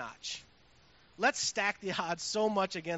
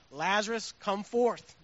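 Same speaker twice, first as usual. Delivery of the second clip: loud ringing call, a little higher; commanding call; 4 semitones higher, 10 dB louder, slower than usual. Acted. Jesus calling dead Lazarus out of the tomb, commanding call. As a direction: call him out of the grave.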